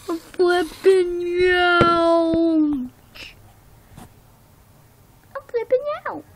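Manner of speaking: drawn-out, very slow wail; mock panic. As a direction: stretch the panic out theatrically. Toy character panicking.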